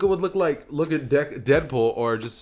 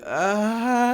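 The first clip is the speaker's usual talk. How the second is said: long, high-pitched drawn-out "ahh"; awkward "ah"; 9 semitones higher than usual. Acted. Deku caught by staring passers-by, awkward high "ahh".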